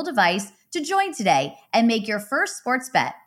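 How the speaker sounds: upbeat sponsor read. Acted. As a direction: sell it like a radio spot. Reads an ad.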